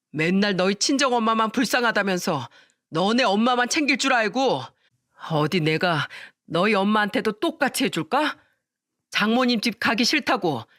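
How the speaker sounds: furious son tearing into his wife; enraged husband. Acted. The son, in a rage, berates his wife for making his mother cry. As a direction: spit out the blame, barely holding back.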